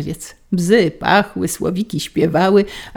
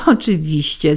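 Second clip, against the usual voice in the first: ordinary delivery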